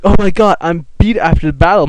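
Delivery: high, dramatic put-on complaint; hammed-up relief after a fight; mock exhaustion. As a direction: play up being beat. Acting out arriving home after battle.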